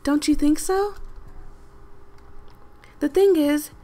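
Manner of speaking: voicing the game lady. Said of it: "I feel like she sounds just like this".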